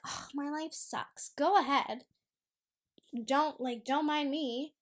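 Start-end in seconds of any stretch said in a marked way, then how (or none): 0.1-1.3 softer mock self-pity; mock complaining. Vlogger mocking logical bums who sit complaining, softer mock moan. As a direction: imitate a sorry little moan. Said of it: "sit over there and be like".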